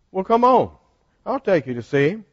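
put-on a cheerful kid tugging him along; little boy. Little boy offers help.

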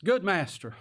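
a touch of prim flattery on Good master; butter him up, all churchy and proper; Good master said with pious deference; mock proper, churchy. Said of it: "Oh, how proper and how churchy".

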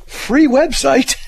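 slow, loud, drawn-out announcement of the two words; deadpan sign pitch. Retold or imitated. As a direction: stretch out "Free website" like a proud street pitch. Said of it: "He goes".

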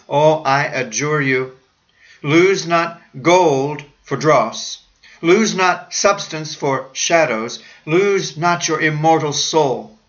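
slow, grand pulpit plea; solemn pleading. Acted. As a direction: adjure them slowly, with weight.

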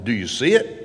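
imitated teacher's query, sharp rise at end; algebra teacher's question. Algebra teacher asks about a proof, imitated questioning. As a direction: swing up on "see it". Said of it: "renowned for asking this question".

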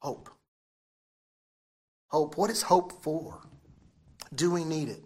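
normal talking voice

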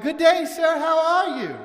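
chirpy British lady answering the phone, imitated; mock British accent, cheery and polite. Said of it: "in her British accent".

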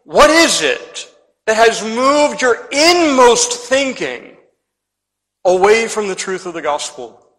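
slow, probing preacher's question; pointed question. Retold or imitated. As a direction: put the question pointedly, drawing out each word. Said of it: "he's saying pointedly".

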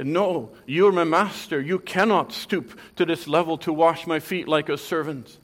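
loud, self-righteous protest; self-justifying. Retold or imitated. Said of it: "a self-justifying way".

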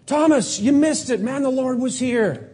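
high, eager call to a friend; excited telling. Acted. Disciples telling Thomas he missed the risen Lord, high and eager.

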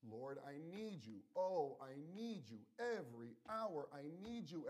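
slow, pleading prayer, each line drawn out; a heartfelt, slowed plea of need; desperate plea. Shown as a demonstration. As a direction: cry it out like a desperate plea to God. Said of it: "It's a cry of our heart. It's a desperate plea".

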